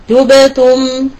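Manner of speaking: تبتم said slowly, each sound drawn out; slow teaching demo of تبتم; drawn-out demo word. Shown as a demonstration. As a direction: stretch out تبتم slowly for the class. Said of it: "مثاله في كلمة".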